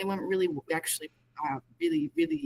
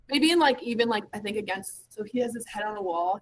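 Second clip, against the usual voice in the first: radio breaking up. Real, not acted. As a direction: voice cutting in and out. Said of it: "Your voice is going in and out a little bit".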